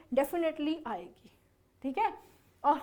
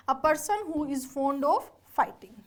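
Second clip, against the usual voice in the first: very slow, word by word; slow dictation; much slower than usual. Shown as a demonstration. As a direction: read the definition out for notes. Teacher dictating a definition.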